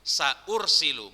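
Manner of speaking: slow "sa'ursilu" with a break after sa; careful "sa'ursilu", sa kept separate; hamza pronounced. Shown as a demonstration. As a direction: sound the hamza before ur in "sa'ursilu". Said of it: "bukan saursil".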